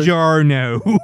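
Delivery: put-on playful Italian accent greeting. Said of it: "the proper Italian accent".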